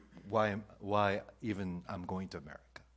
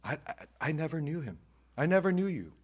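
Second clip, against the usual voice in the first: stern, rising judge's verdict, louder at the end; Jesus rejecting; 6 semitones higher, 5 dB louder than usual. Acted. Jesus on judgment day telling the denier, stern. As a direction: pronounce the final verdict. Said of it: "What happens if he denies you?".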